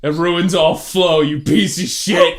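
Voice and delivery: half-laughing, exasperated insult; exasperated outburst. Real, not acted. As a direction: rant at your co-host with a laugh breaking in. Scolding co-host for interrupting.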